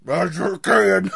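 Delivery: badly faked British accent, drawn out slowly; exaggerated, failed stab at British; mock British attempt. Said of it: "can you do British?".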